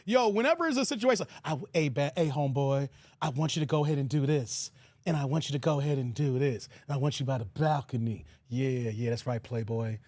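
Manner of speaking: deep, low mock rapper directing; rapper impression. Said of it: "You know how he talking?".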